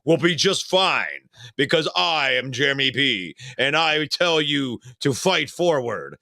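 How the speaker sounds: mock-cool, self-assured proclamation; Jeremy B. Teasing a friend as the cool one up front, mock-serene. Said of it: "cool Jeremy B sitting up in the front going".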